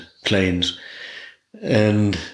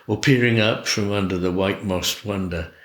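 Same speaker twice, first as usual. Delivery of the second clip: measured, lilting poem reading; unhurried recital with falling line ends; poetry recitation. Acted. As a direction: read it aloud as verse, phrase by phrase. Recites poem London Snow.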